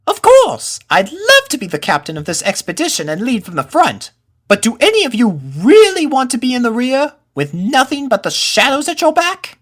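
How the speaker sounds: high colt voice, loud burst then a spooky tease; spooky-teasing colt. Acted. Pip spooking his friends about the rear, high loud colt voice. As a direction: make the shadows sound creepy to scare friends.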